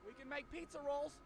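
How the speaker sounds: a hammed-up spirit summoner; summoning spirits. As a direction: call out to the dead like a goofy teen. Summoning spirits with Ouija board.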